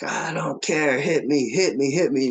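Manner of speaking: high-pitched, reckless dare; imitated taunting. Beaten fighter daring his opponent to hit him, imitated taunting. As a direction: goad him into a punch, retold.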